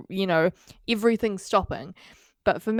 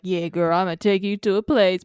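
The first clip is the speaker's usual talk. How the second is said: Impression of a singer. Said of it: "that's a good impression of the singer".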